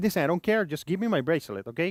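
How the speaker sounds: rude, pushy, insistent tone. Retelling a demand to a receptionist: imitating being rude and pushy. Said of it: "a little bit like an asshole".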